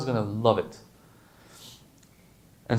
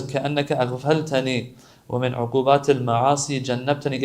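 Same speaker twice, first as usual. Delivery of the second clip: quick recitation; much faster than usual. Acted. Reciting Arabic du'a.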